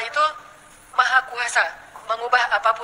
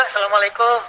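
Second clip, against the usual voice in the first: lower, mournful greeting of a hopeless mother; pitiful greeting; 3 semitones lower than usual. Retold or imitated. Childless mother greets Nabi Musa, pitiful and downcast. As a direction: say it like a weary, sorrowful woman. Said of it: "Melas gitu ya".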